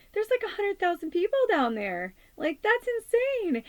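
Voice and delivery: high, tearful quote breaking up; fighting back real tears while quoting; choked up. Real, not acted. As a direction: voice cracking with emotion, slowing down at the end. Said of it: "I'm starting to cry".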